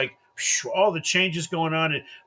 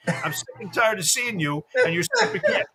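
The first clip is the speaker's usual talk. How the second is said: laughing rant; 5 semitones higher than usual. Retold or imitated. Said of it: "And I'm like".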